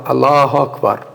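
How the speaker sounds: ALLAHU AKBAR said evenly as a model; pronunciation demo. Shown as a demonstration. Teacher models a first try at the takbir, demonstrating. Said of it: "vamos falar que eu falo".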